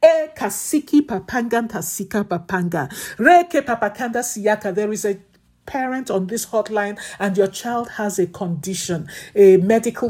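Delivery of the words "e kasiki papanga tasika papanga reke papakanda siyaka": impassioned intercessory praying; fervent prayer. Acted. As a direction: pray it with fire and urgency.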